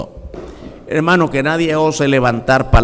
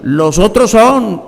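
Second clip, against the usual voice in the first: voice of the Lord; 6 semitones higher, 4 dB louder, slower than usual. Acted. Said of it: "Y entonces dice".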